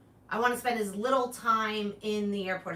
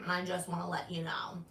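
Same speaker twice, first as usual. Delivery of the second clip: whispered aside; 6 semitones lower, 8 dB quieter than usual. Retold or imitated. Texting Richie, mock final words.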